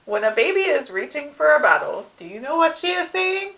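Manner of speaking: high, theatrical recital building to a loud squeal; quoted cartoon line. Daycare head lecturing on babies and bottles, performed. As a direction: pitch it up, climbing to a loud high punchline. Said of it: "what about line two".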